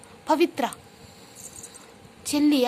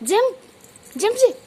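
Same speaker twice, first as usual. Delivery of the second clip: excited cheer; 8 semitones higher than usual. Real, not acted. Cheering child to jump. (ఉత్సాహంగా ఎత్తైన పిలుపు)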